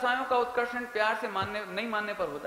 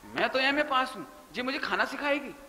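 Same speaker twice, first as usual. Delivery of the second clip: scornful inner voice; 4 semitones higher than usual. Retold or imitated. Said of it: "ऐसे सोचते हैं".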